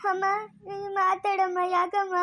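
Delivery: slow wailing appeal; tearful pleading. Acted. Grieving child begging mother to talk, tearful pleading. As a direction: beg her through sobs.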